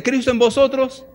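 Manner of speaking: leading the congregation, loud then slow. Shown as a demonstration. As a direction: call the verse out for all to repeat. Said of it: "Dígalo fuerte".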